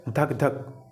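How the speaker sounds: धक धक drawn out slowly like a heartbeat; slow heartbeat imitation. Shown as a demonstration. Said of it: "गांव देहात में कैसे बोलते हैं".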